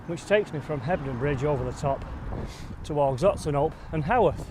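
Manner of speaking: breathless, talking while climbing hard; panting between phrases on a climb; out of breath. Real, not acted. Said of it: "if I sound out of breath right now".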